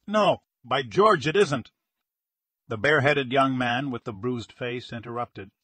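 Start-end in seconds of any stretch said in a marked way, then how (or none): 0.1-1.7 loud, slow, startled correction; sudden realization. A narrator's reading. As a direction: catch yourself mid-sentence. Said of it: "He caught himself with a start".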